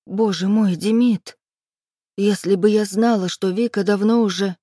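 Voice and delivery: plain reading voice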